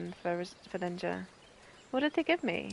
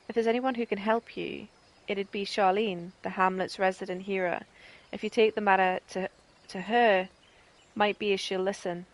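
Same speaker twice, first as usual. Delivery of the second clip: a hint of a prickly village woman; lightly acted NPC, not far from own voice; lightly voiced Albreda. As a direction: read her lines with a bit of bite. Reads Albreda's reply.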